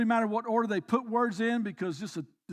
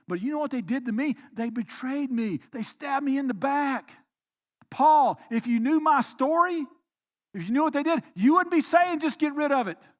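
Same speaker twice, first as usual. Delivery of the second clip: aggrieved protest; 3 semitones higher, 4 dB louder than usual. Pretend. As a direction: argue back at Paul, offended. Voicing an aggrieved listener protesting.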